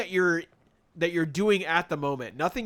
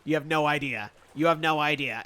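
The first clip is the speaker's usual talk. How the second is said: Spooky impression; 4 semitones lower than usual. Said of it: "Spooky would be like".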